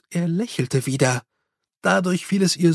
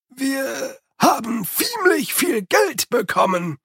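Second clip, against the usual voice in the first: Igor's servant voice, pitched up, pushed hard and forceful; emphatic; 9 semitones higher, slower than usual. A narrator's reading. Igor to his master about the money, with heavy emphasis. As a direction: insist on it with full weight, like a man who has pocketed some of the gold. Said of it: "mit dem Nachdruck eines Mannes".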